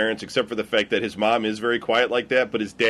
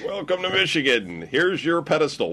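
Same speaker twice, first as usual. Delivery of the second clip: high mock welcome voice; a hammed-up greeter, higher; 6 semitones higher than usual. Friend mocking Michigan, high mock greeter voice.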